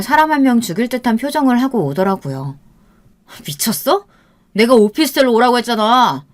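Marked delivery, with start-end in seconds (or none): 3.5-6.3 loud, furious rebuke; angry reproach. Acted. Boyfriend scolding girlfriend at the cafe, furious. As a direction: snap at her for disobeying.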